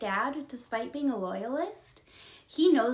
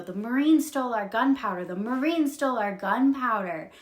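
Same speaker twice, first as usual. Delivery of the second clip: louder, urgent retold cry; calling out alarm; 5 dB louder than usual. Ben and Felicity warn every house, acted calling out. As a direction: spread the alarm, half-shouted.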